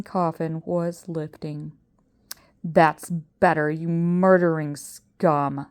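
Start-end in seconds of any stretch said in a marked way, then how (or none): 2.6-5.7 snarl. Acted. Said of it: "snarled Professor Pepper".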